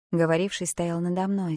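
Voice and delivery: plain reading voice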